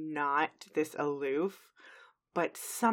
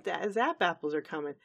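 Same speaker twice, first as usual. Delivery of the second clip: lightly voiced Applejack. Applejack answering Granny's alarm, lightly voiced. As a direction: say it evenly, as a mild reply. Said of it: "I believe it's Applejack goes".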